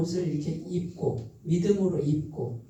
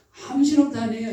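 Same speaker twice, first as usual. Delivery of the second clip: louder, higher mock Jeolla dialect; 4 semitones higher, 5 dB louder than usual. Preacher playfully slipping into Jeolla dialect, raised voice. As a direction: toss off a Jeolla country line, louder. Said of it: "전라도".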